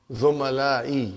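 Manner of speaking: Zumalai said slowly with a falling end; slow drilled word. Shown as a demonstration. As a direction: model Zumalai slowly for students. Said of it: "We are talking about third person".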